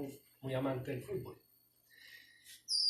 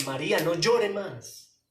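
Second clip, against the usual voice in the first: Jesus comforting Mary; 4 dB louder than usual. Acted. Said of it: "llamado de atención".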